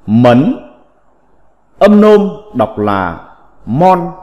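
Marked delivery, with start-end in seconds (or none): 0.1-0.7 "mấn" read as Mandarin mén, rising tone; phát âm tiếng Trung. Shown as a demonstration. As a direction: lift "mấn" like Chinese second tone. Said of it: "Phiên âm tiếng Trung đọc là". ("mấn" đọc kiểu tiếng Trung, giọng đi lên)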